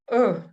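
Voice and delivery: "э" like a puzzled grunt. Shown as a demonstration. Russian teacher comparing the vowel to a puzzled sound. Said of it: "недоумение звук".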